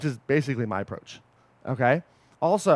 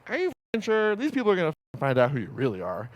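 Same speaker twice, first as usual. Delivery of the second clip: Rod the fraud; 3 dB quieter than usual. Acted. Inner fraud questioning the coach, mildly taunting. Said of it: "He's like".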